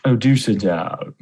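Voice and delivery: slow, posh villain impression; lightly voiced British villain; mustache twirling villain. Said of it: "mustache twirling, like".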